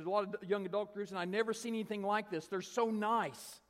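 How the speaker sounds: high-pitched marvelling; imitated high voice, drawing out the praise; gushing amazement. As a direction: gush as a bewildered, grateful woman. Retold lady marvels at the youths.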